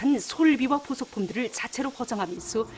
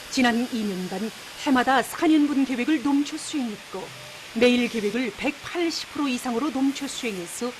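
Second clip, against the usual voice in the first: North Korean state newsreader accent; forceful Pyongyang broadcast accent. Real, not acted. North Korean state news read.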